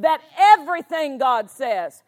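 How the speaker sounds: loud, forceful declaration; emphatic preaching. Real, not acted. Preacher to congregation on all God says, loud and emphatic. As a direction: punch it out to the room.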